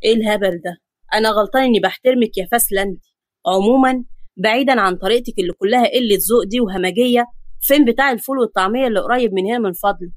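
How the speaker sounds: a touch of male indignation, pitched a little down; hint of an affronted gentleman; lightly voiced offended man. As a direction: answer her rudeness with wounded dignity. Voices Ahmed, offended by the girl.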